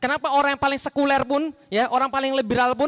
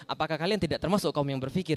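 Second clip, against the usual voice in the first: relaxed reading; 8 semitones lower, 5 dB quieter than usual. Shown as a demonstration. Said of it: "gitu kan kita bacanya".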